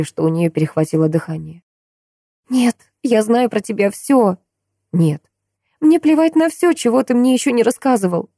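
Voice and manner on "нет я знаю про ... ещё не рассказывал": high, fervent declaration; fervent insistence. A narrator's reading. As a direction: insist she knows him. Maya insisting.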